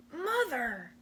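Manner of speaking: a touch of a happy growl; growling wolf. Acted. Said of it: "growled the creature".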